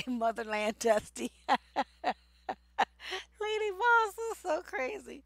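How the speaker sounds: laughing through the words, pitch climbing high; high, helpless amused cackle; real laughter. Real, not acted. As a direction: crack up and keep talking through it. Laughing at a viewer's comment.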